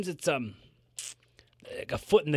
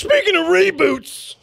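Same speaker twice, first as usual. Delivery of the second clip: high, slow dramatic segue; slow, high mock announcement; dramatic announcer voice; 13 semitones higher, 4 dB louder, slower than usual.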